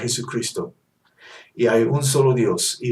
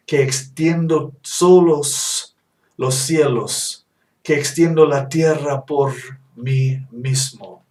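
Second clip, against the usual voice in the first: solemn scripture reading; 3 dB louder than usual. Acted. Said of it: "Déjenme leer eso para, para ustedes". (lectura solemne y lenta de la Escritura)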